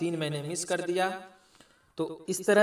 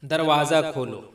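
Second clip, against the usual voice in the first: command; 6 dB louder than usual. Shown as a demonstration. Command example.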